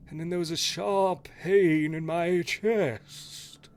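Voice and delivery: put-on slow, solemn old ghost telling his tale. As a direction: reminisce slowly as a ghost. GM voices ghost's backstory.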